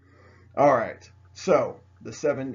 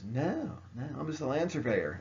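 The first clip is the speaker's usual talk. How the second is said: mock innocent denial; 2 semitones higher, 5 dB quieter than usual. Captured Washington answers the French, mock innocent denial. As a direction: play it lightly innocent to your captors. Captive denies being military, acted.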